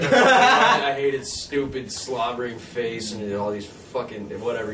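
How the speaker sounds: slow laughing mock rant. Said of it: "he's like".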